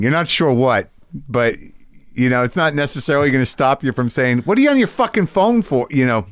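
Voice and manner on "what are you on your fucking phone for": high exasperated yell at a phone user; mock heckle. Comic scolding someone on their phone, high and annoyed. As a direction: snap at the crowd member.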